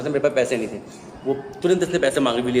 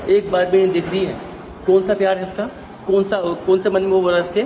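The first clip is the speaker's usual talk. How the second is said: नाराज़गी; 4 semitones higher, 3 dB louder than usual. Real, not acted. शिकायत में नाराज़गी.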